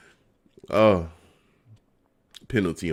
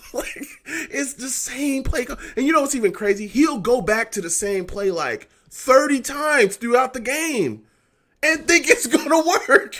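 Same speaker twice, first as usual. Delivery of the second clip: laughing rant; 12 semitones higher, 3 dB louder than usual. Real, not acted.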